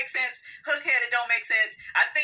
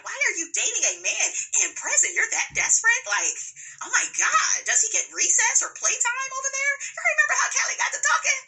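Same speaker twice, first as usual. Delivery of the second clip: high, laughing mock questions; cracking up while roasting her; laughing hard; 13 semitones higher than usual. Real, not acted. Mocking Sheree, laughing hard.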